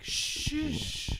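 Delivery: long, soft shushing hiss; imitated shushing. Host retelling how people hush him indoors, drawn-out shush. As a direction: shush them as a listener would. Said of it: "will be like".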